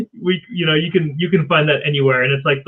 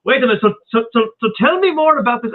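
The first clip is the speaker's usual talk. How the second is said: put-on heavy German accent; 9 semitones higher, faster than usual. An old German man eagerly asks about the movie, heavy German accent. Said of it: "this really old German guy with this heavy German accent".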